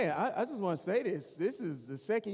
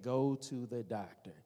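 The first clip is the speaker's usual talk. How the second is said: nagging wife; 3 semitones lower than usual. Retold or imitated. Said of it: "somebody in their ear saying".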